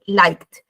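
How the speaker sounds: liked como «laikt», una sílaba; K y D fusionadas. Shown as a demonstration. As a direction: une la K y la D final de liked. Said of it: "Se fusiona otra vez la K con la D". (liked sin E, con final fusionado)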